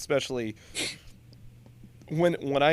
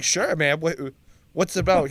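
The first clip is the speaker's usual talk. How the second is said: louder imitated Boston worker; Boston accent; 3 semitones higher, 3 dB louder than usual. Buddy asks about the movie, in a Boston accent. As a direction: answer as a blue-collar Bostonian. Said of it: "because the accent's out".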